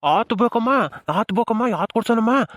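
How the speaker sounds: put-on lilting questions to a baby; coaxing baby talk. Visitor offering the baby treats, coaxing lilt. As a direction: coo each question with a rising lilt. Asking baby what it wants.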